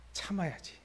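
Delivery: soft, quiet self-restraint; holding it in. Pretend. God reining in his anger again, soft self-talk. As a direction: talk yourself down, barely aloud. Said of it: "으아 하다가".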